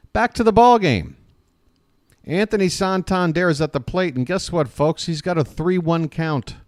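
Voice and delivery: lifted ballpark commentary voice; live play-by-play. Real, not acted. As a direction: call the at-bat for the listeners.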